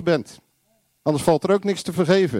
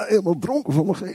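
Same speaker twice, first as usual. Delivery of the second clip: a loose, hammed-up drunken wobble; mock drunkenness; 2 semitones higher than usual. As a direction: lightly play tipsy in the Spirit. Mimics being drunk in the Spirit.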